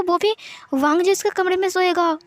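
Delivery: ordinary delivery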